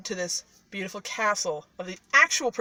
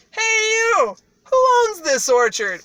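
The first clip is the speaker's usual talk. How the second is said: high, loud royal hail; acted shout to someone far off; calling out; 13 semitones higher, 8 dB louder, slower than usual. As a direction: holler across the orchard as the king. Retold king calls out to peasants.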